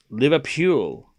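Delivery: imitated Scouse "Liverpool" with a drawn-out pool; Scouse accent. Shown as a demonstration. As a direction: put on a Scouse accent for the place name. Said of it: "how do you say Liverpool in Scouse".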